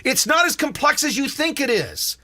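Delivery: loud sharp voice. Retold or imitated. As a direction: pitch up and push it.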